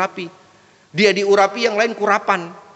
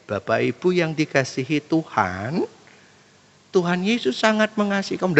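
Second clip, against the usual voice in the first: gentle preacher style. Acted. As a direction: preach it gently, drawing out the phrases. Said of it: "Mau dia gayanya begini". (gaya khotbah lembut dan pelan)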